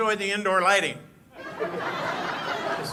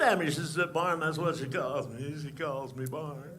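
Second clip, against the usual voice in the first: Barney Fife impression; 3 semitones higher, 5 dB louder than usual. Comic plays the boastful deputy telling a crowd a story, loud and squeaky. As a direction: brag like a nervous, puffed-up small-town deputy. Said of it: "Ladies and gentlemen, Barney Fife".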